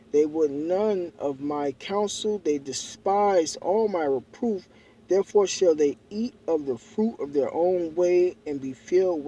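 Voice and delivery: slow, weighty Bible reading; scripture reading. Acted. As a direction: read it like a preacher. Reads scripture aloud.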